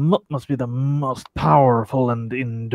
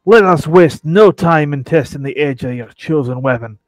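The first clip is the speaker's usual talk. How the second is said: pirate voice. Acted. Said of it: "I really should have practiced the pirate voice".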